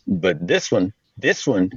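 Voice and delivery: put-on a light Southern preacher accent. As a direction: draw it out like a Southern youth pastor. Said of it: "I have to have a Southern accent".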